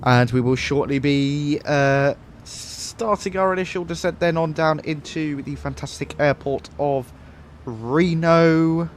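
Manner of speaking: lightly voiced airline captain announcement; a hint of cabin PA captain; Captain Skies pilot voice. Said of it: "We gotta do the pilot voice".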